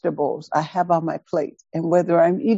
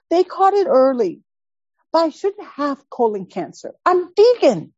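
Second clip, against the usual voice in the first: indignant; 6 semitones higher than usual. Retold or imitated. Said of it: "She is hot".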